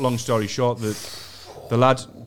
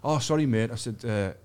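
retold nervous stammer, trailing off softer; mildly flustered, dropping quieter as it goes; a bit nervous; 4 dB quieter than usual. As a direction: imitate a sheepish, halting apology. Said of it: "I got a bit nervous".

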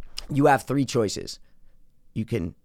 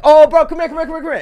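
high, urgent retold call; loud start, rapid repeated beckoning; calling someone over; 9 dB louder, faster than usual. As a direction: flag down a passing worker. Calls over a passing attendant.

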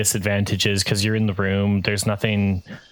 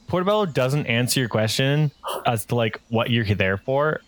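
ordinary talk

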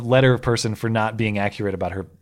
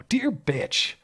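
much higher, softer mock-prim read; mock snooty reading; 12 semitones higher, 5 dB quieter than usual. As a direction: say it again in a prissy voice. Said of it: "as I said at the top".

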